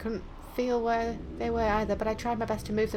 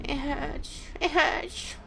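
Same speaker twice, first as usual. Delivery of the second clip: higher, pained character voice; pained whimper; 6 semitones higher, much slower than usual. Acted. Reader as girl with rope round her wrists, pained whimper. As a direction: whimper it, acting out the hurt.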